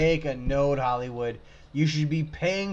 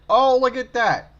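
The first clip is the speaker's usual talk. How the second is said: surprised; 12 semitones higher, 7 dB louder than usual. Real, not acted. Spotting a suspicious detail.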